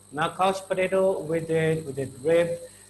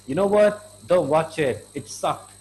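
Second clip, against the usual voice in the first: emphatic warning; 6 dB louder than usual. Shown as a demonstration. Friend warns about bad movie.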